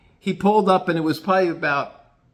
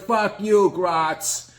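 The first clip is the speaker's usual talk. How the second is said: gruff Gino; 8 semitones higher than usual. Retold or imitated. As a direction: boss everyone around. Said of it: "Gino goes".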